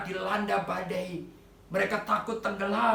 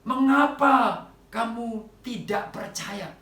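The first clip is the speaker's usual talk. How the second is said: slow reproach; 4 semitones higher, 6 dB louder, slower than usual. Retold or imitated. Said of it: "Yesus juga berkata".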